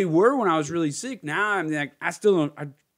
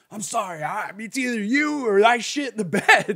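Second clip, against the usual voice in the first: laughing apology; 6 semitones higher, 4 dB louder than usual. Retold or imitated. Apologising to partner mid-act.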